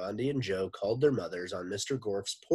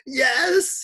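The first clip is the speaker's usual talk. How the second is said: very high, loud braying yes; donkey with tonsillitis; 12 dB louder than usual. A narrator's reading. Teacher's stolen voice misfires, loud donkey bray. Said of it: "like the donkey with tonsillitis".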